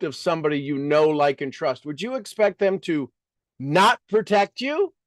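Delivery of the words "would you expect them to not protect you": normal talking voice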